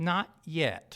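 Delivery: short, clipped words in put-on New England accent. Retelling a whale boat commander's shouted reply to a surrender demand: New England accent. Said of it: "I'm gonna try the New England accent".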